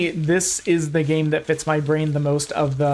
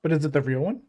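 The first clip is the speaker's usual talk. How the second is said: mouth full; faster than usual. Real, not acted. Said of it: "Sorry, I'm munching on some chips".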